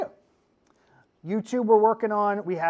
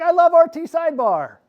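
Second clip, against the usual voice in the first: high, loud wail of fan adoration; hammed-up gushing, sliding down from a high pitch; mock tearful fan; 12 semitones higher, 12 dB louder than usual. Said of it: "started to cry a little bit".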